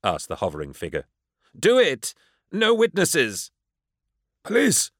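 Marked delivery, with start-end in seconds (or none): 1.6-3.5 frantic shout. A narrator's reading. Lyco screaming at the demon to kill everyone. 4.4-4.9 high alarmed cry. A narrator's reading. Old Murdoch crying out in panic, high. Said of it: "cried the elderly Murdoch".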